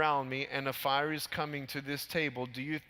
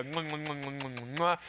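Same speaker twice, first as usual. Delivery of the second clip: kiss sounds. Retold or imitated. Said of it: "And I go".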